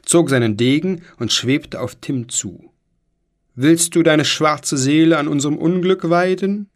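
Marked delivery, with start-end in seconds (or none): 3.5-6.7 loud hollow ghostly challenge. Acted. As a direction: threaten like a tiny ghost. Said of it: "rief er mit hohler Stimme".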